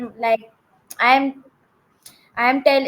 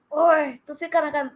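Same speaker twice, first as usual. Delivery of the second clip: fast, lightly voiced cartoon big brother; brother voice in Urdu; 2 semitones higher, much faster than usual. Shown as a demonstration. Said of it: "I do in Urdu".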